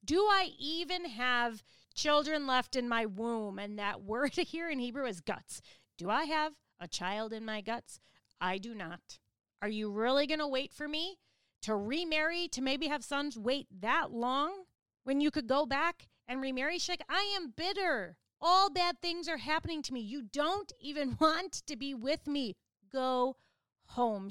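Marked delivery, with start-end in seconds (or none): 0.0-16.8 mock her own hope with a bitter edge; sarcastic and bitter. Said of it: "She's being sarcastic and bitter here". 17.1-24.3 higher, bitter outburst. Retold or imitated. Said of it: "She is bitter".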